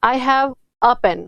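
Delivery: very slow, clearly spaced reading; slow example. Shown as a demonstration. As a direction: spell out "I have a pen" slowly for learners. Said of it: "मैंने आपको जवाब दिया".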